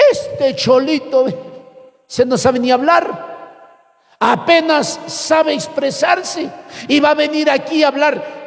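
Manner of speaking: a touch of sneering contempt; mocking scorn. Students sneering at the young preacher, lightly mocking. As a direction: sneer lightly at the country boy. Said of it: "se le burlaban".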